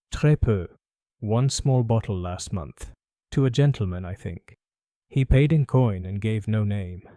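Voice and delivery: put-on a faint French accent, bowing politely; light French accent. Perfumer greeting Holmes, faint French accent. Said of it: "faintest trace of a French accent".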